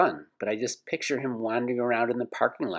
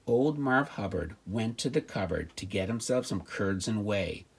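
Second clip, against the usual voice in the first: nursery rhyme recital; slower than usual. Acted. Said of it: "best children's nursery rhyme".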